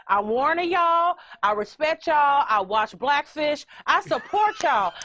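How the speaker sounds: slow, deliberate mock warning to orcas; emphatic pretend warning, drawn out. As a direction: lay down a playful warning, measured. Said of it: "That's the warning to the orcas".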